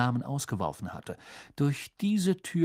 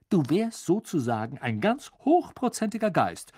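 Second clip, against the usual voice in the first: chuckling; 5 semitones higher, 3 dB louder than usual. A narrator's reading. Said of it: "gluckste Ron".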